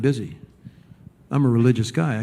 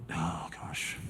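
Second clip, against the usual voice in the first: very soft, low mutter; disapproving sigh; 9 semitones lower, 15 dB quieter than usual. Retold or imitated. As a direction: imitate yourself sighing under your breath. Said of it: "I catch myself going".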